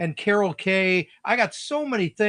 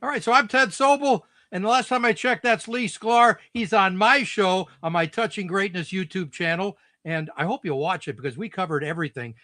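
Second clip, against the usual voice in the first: upbeat host plugging his channel; show promo. Pretend. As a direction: sell the show like a presenter. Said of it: "you do a promo for your show".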